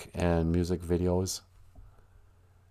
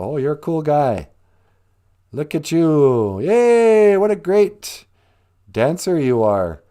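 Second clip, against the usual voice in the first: high, loud fake adoration; hammed-up cheer swelling on the yay; mock fan gushing; 5 semitones higher, 6 dB louder than usual. Fans fawning over an aging rock singer, mock-gushing. Mocking fans' praise of the singer.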